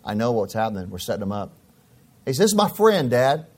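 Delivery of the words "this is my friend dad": son's voice. Retold or imitated. Son introducing friend.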